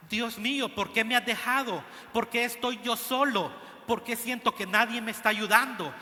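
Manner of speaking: mild voiced lament of Jesus on the cross; anguished plea. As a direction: cry out to God as if forsaken.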